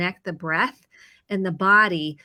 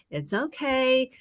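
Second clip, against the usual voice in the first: calming self-talk; 5 semitones higher, slower than usual. Retold or imitated. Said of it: "I'm gonna say".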